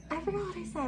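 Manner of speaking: ordinary talk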